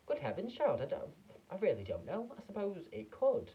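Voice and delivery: put-on high dithering old confectioner; flustered Wonka. A narrator's reading. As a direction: fumble for words, high-pitched.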